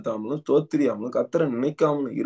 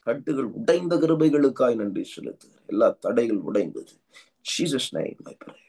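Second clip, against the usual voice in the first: intense tongues-filled prayer, rhythmic and urgent; fervent prayer. Acted. Pastor leading congregation in prayer, fervent. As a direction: pray over the church with rising fervour.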